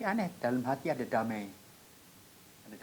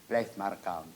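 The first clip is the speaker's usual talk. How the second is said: menenangkan; 3 semitones lower, 5 dB quieter than usual. Retold or imitated. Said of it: "Dia ngomong Belanda sama saya".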